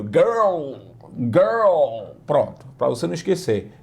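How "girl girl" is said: put-on "Girl" said like retching; "Girl" pushed out from the throat as if gagging. Shown as a demonstration. Teacher joking to students while modeling the word. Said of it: "Parece que você tá vomitando".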